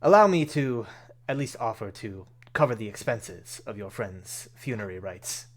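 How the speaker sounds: lightly voiced gentleman, emphatic opening then settling; courteous Rainier. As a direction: make a gracious, formal offer in light character. Voices Rainier offering to pay.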